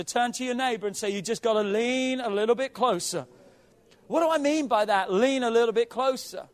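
loud, urgent pulpit exhortation; impassioned preaching. Real, not acted. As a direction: preach it out with force. Preaching at full force.

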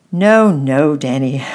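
put-on a girl cries out to her brother, eager; cried out. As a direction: cry out to correct the sleepy boy. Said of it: "cried Annette".

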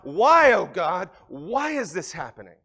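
cry out to God. Retold or imitated. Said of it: "and you cry out".

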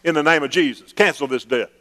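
mock pleading prayer. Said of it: "talking like this to God".

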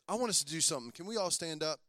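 ordinary talk

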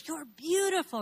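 high delighted praise; gushing compliment. Retold or imitated. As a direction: beam it at the customer. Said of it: "he goes".

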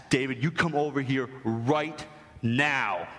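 slow, measured parental command; retold stern order. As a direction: imitate a stern father, spacing out each word. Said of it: "I was really stern with him".

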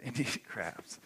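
"Indian crabs" said through a light chuckle; chuckling "Indian crabs" to yourself; amused laugh. Real, not acted. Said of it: "That kinda sounds bad".

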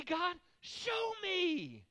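very slow, drawn-out, humble plea of show me; slow humble prayer; soft plea. Shown as a demonstration. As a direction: ask gently and slowly, surrendering.

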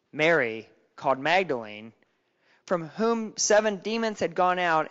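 measured liturgical Gospel reading; scripture reading. Acted. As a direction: read it like a lector at Mass. Reads the Gospel in church.

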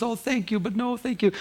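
high, gentle mock refusal; retold polite refusal. Retelling his polite refusal to her.

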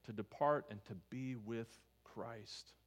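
slow, each word weighed; slow reverent quote. Retold or imitated. Preacher reading Paul's words to the church, slow reverent. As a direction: let the words settle. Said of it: "he says".

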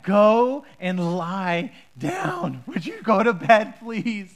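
slow, loud shouted order; exasperated Eli. Acted. Eli loses patience and shouts at Samuel to go to bed. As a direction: shout it like a fed-up old man.

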